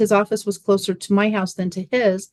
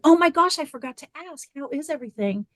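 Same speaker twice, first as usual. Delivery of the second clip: mock-casual excitement; 7 semitones higher than usual. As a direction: pretend you just remembered to ask. Mother fishing for son's results.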